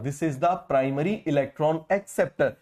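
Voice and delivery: very slow, word by word; dictating pace, each word spaced; slow dictation. Shown as a demonstration. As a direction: spell it out slowly for notes. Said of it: "बताओ जरा".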